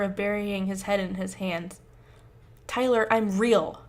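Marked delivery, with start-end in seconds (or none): 2.7-3.8 sharp, slightly louder snap; snapping. Acted. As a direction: snap it out in frustration. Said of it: "Josh snaps".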